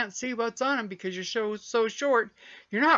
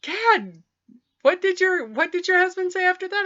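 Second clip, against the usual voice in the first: higher eager question; eager girl; 10 semitones higher, 5 dB louder than usual. Retold or imitated. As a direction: ask like a curious trainee girl. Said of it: "And she goes".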